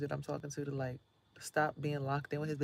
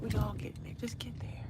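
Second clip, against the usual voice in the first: lifted, voiced, a little higher; higher plain take; 6 semitones higher than usual. Shown as a demonstration. Answering her own whisper with a voiced, higher take. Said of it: "repeats the line in another way".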